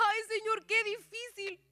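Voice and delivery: mild, imitated lament; retold tearful lament. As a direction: relive a weary prayer, a touch tearful. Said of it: "yo lloraba porque yo le decía al Señor".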